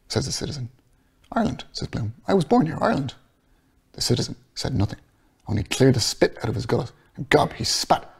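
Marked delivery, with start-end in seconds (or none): 1.3-3.1 Bloom voiced higher.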